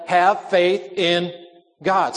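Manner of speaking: each word drawn out, short pause before "God"; slow "Have faith in", then set "God" apart; stress on GOD. Shown as a demonstration. Preacher quoting Jesus to show the emphatic word, stress on God. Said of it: "The emphasis is on the word God".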